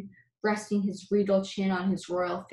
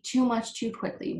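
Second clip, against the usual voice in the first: fading wheeze; 3 semitones higher than usual. Acted. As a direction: let the wheeze die down. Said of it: "wheezed the uncomfortable Bud between gulps".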